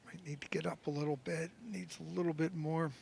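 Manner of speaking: whispered golf commentary; hushed whisper. Real, not acted. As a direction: keep it hushed while he putts. Hushed call during a putt.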